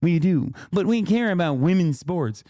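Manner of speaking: snide impersonation of the guest; sarcastic mock voice. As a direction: fake earnest, dripping sarcasm. Mocking the guest's claim.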